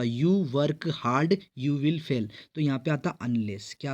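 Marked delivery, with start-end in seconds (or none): 0.0-2.3 slow demo reading. Shown as a demonstration. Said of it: "ये ऐसा होता".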